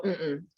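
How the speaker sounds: soft MM-mm; "Mm-mm" hummed low and soft, weight up front; acted no. Generator declines the question, soft MM-mm. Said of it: "then they can go".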